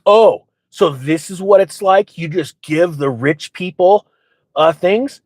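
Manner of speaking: retold huffy complaint, drawn out; mock indignation. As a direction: drag it out, hamming up the outrage. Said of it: "one of the ladies gets super angry".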